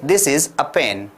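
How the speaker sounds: slow, clear model sentence. Shown as a demonstration. Teacher slowly modelling a sentence for students. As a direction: say it slowly for them to repeat. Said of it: "तो आप क्या बोलेंगे?".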